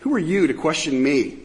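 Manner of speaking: biting sarcasm. Retold or imitated. The Lord taunts men who think they're smart, biting sarcasm. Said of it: "ripping into them with this biting sarcasm".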